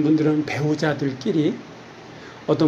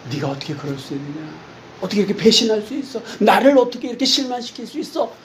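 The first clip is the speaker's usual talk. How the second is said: imagined reproach; 4 semitones higher, faster than usual. Retold or imitated. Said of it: "라고 얘기하신들".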